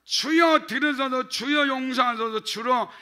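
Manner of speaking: cry of Lord. Shown as a demonstration. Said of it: "그러니까".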